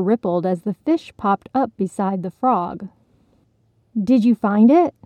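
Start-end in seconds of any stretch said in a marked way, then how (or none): 4.0-5.0 a louder, eager asking; excited question. Acted. Fish eagerly asking the frog, louder. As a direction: bubble over with curiosity. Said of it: "they asked excitedly".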